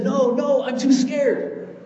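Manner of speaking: put-on high, loud, terrified little girl crying out; cling on and cry out in fear like a five-year-old; frightened child. Preacher voicing scared girl stuck in tree, high frightened cry. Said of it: "the little girl was in fright".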